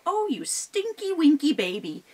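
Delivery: put-on high cooing baby talk; cooing mama troll. Mama Troll cooing to her baby. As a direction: coo at the baby like a doting troll. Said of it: "she would go".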